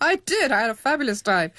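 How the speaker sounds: bursting up high with real joy; light up at the memory; a quick, bright yes full of happy recall; delighted. Real, not acted. Agreeing she had a great time.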